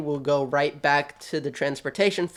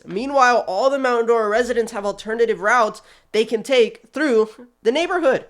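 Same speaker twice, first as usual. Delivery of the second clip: heated rant; 6 semitones higher than usual. Real, not acted. Building rant about county.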